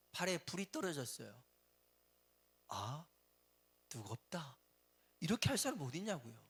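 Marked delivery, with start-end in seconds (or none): 0.1-4.6 mock polite calm. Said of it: "이렇게 점잖게 얘기한 사람".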